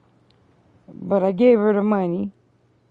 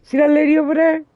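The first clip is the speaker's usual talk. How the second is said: higher, louder, fast smug reply; smug pointing; 8 semitones higher, 5 dB louder, faster than usual. Retold or imitated. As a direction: point her out, smug and quick. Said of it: "I was like".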